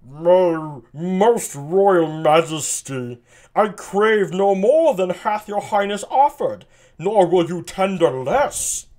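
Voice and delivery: a lightly voiced dopey nobleman, slowed at the start; dopey Burgundy. Burgundy answering the king, lightly dopey. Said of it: "Burgundy's gonna sound like a dope".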